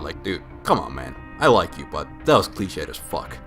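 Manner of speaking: ordinary talk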